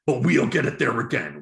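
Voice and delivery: a mock British party advert read; political ad voice. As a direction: intone it like a party broadcast. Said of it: "they showed their commercial".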